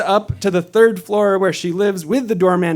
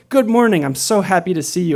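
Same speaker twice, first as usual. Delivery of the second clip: retold bright greeting, pitched up at the start; cheerful greeting; 3 semitones higher than usual. Driver greeting his early-morning passengers, happy and eager.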